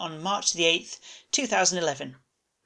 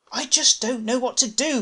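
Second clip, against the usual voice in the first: Seymour's voice; 8 semitones higher than usual. A narrator's reading.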